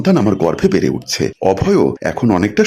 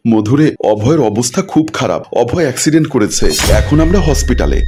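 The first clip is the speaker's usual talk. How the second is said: acted tearful distress, slightly raised; 2 semitones higher than usual. Mother-in-law phoning about her son's accident, tearful. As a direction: break bad news as if through tears. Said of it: "কান্নাজড়িত কণ্ঠ ভেসে আসলো".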